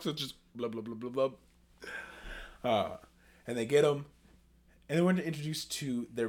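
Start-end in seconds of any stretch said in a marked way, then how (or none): 0.5-1.3 burbled blah-blah noises; imitated wordless babble. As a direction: babble like a character who can't talk. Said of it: "But he can't talk".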